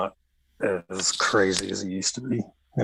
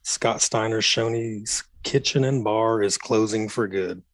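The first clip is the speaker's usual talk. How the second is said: buzzy, tinny voice; like through a cheap earpiece; metallic voice filter; 3 semitones higher than usual. Real, not acted. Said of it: "There's a buzzy, tinny voice".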